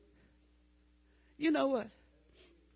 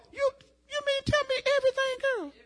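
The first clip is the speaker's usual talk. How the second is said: mock surprise. Voicing a surprised listener.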